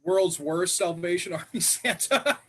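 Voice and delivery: laughing through the prompt. Real, not acted. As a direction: giggle while repeating it.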